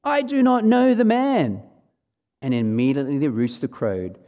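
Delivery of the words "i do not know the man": higher, louder swearing denial; cursing denial. Acted. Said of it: "invoke a curse on himself and swear".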